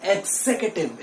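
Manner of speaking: 'executive' as eg-ZEK-uh-tiv, stress on zek; right pronunciation. Shown as a demonstration. Teacher has students repeat, right pronunciation eg-ZEK-uh-tiv. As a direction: stress zek in 'executive', weak vowel after it. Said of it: "मेरे साथ बोलिए".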